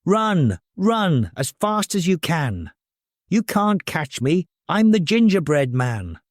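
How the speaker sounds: cheeky taunt. Acted. Gingerbread man taunting.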